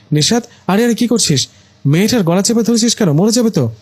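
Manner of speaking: high, alarmed scolding from a mother; mother bursting in, shocked: high alarmed scold. Acted. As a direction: stop him in a rush of alarm. Mother finds son choking girl.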